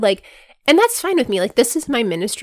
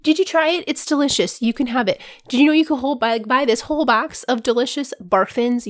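pushy sample lady; 3 semitones higher than usual. Pretend.

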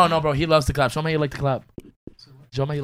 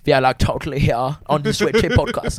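light comic German accent. Shown as a demonstration. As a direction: put on a casual German accent. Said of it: "Do, do a, a German".

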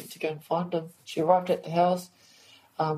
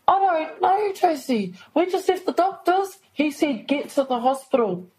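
distressed, near tears; 8 semitones higher, 3 dB louder than usual. Retold or imitated. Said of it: "I started crying on the phone".

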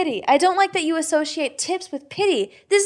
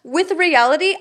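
louder and higher, incredulous; outraged disbelief; 5 semitones higher, 5 dB louder than usual. Real, not acted. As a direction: demand it as if he's from another planet. Outraged at the husband's gift comment.

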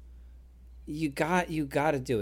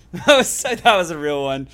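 excited; 5 semitones higher, 12 dB louder than usual. Real, not acted. Insisting laugh was real.

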